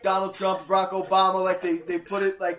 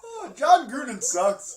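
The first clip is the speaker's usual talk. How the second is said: Irish drunk cartoon; 4 semitones higher, slower than usual. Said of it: "Irish drunk cartoon character".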